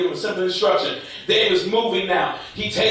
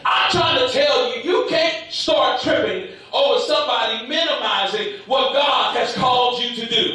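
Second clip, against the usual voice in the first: preaching. Real, not acted. Preaches at full force.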